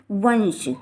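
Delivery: वंश with a clear held n before the sh; anusvara as n. Shown as a demonstration. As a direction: sound out वंश slowly as "vansh". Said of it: "हम उसका उच्चारण ना करेंगे". (वंश में बिंदी का न उच्चारण)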